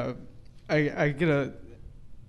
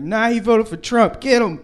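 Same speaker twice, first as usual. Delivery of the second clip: mock yell, higher and louder; yelling Rudolph; 9 semitones higher, 10 dB louder than usual. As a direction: shout it down the chimney, egging them on. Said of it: "Rudolph will yell down from the chimney".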